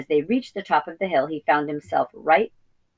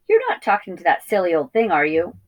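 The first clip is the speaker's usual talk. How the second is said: sharp scolding; 2 semitones higher, 4 dB louder than usual. Acted. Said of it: "she had said sharply".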